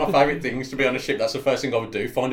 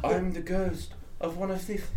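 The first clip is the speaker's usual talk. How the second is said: higher, tentative ghost voice; 5 semitones higher, 5 dB quieter than usual. Pretend. Player introducing himself as the ghost, spooky voice. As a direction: start a spooky ghost act and falter. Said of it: "Oh, I'm being the ghost".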